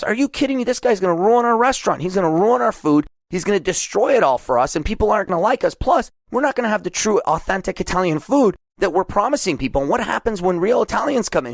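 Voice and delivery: a touch of outraged chef, defending tradition; indignant artist. Acted. Artist complains to operator.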